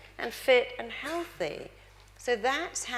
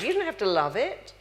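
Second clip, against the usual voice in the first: usual speaking voice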